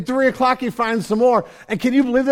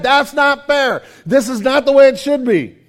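indignant complaint; 5 semitones higher, 6 dB louder than usual. Retold or imitated. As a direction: insist it is unfair, loudly. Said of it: "you can hear it in their head".

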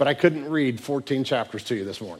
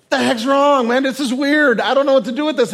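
high, loud bewildered voice; freaked out; 11 semitones higher, 7 dB louder than usual. Acted. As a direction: act out weirded-out onlookers. Bewildered brothers watching Joseph wail.

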